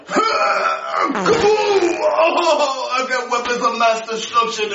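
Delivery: high excited shout; gleeful yell. Acted. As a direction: shout it out with glee. Prisoner yelling about bombs.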